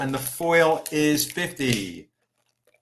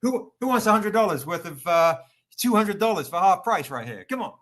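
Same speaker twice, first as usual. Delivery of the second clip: Andrew Dice Man; 3 semitones higher, faster than usual. Acted. Seller hawking half-price covers, in a bad comedian's accent. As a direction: hawk it in a hammed-up comedian's accent. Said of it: "I feel like Andrew Dice Man".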